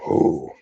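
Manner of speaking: short "whoo" hoot; imitated whistle ending. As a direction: imitate the tail end of a mimicked train whistle. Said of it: "it would end roughly".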